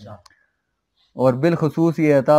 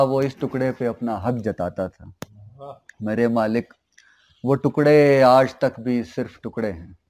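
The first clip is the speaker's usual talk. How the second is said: nazm recitation. Acted. Poet pleading to God about divided Kashmir, subdued recitation. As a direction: address the Master in measured, hushed lines.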